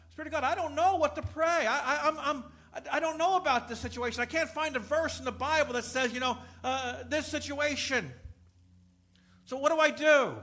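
loud, high-pitched cry to God for help; exasperated plea. Acted. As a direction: plead at full voice, acting out helplessness. Acts out a worried praying believer.

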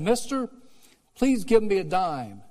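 high pleading beggar voice; begging tramp. Retold or imitated. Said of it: "and said".

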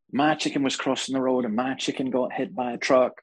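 lightly mimicked American accent; strong accent. Televangelist tells of her chicken's accident, lightly imitated American accent. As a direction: give a touch of her American preacher accent. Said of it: "She had a very s-, strong accent".

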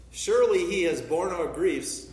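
loud, ringing declaration with SURELY hit hard; proclaiming scripture. Real, not acted. Preacher reading Isaiah to the congregation, loud and ringing. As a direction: proclaim it to the back pew.

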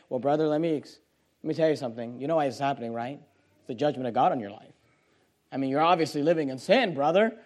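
low, soft, confiding judgment; hushed mock counsel. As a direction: imitate a confidential word to a fallen brother. Imagined judgmental visit to jobless brother.

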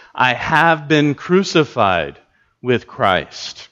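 slow, linger on "have"; stress on have. Shown as a demonstration. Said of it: "notice it happened in the past".

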